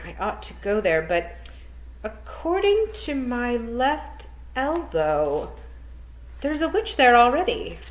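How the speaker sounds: a hint of a brisk, worried witch, rising loud at the end; teacher lightly voicing a fretful witch; lightly voiced old witch. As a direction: voice the witch muttering over her omen. Miss Tick speaks in story.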